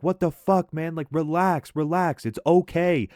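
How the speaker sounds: high-pitched, incredulous plea to calm down; alarmed protest. Retold or imitated. Passenger telling the man attacking the car to relax, alarmed. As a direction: act out a startled passenger pleading, pitch up.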